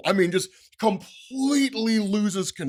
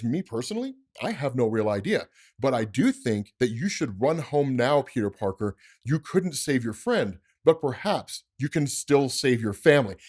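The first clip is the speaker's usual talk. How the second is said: Mysterio's taunt; 4 semitones lower than usual. Acted. Voices Mysterio's parting threat.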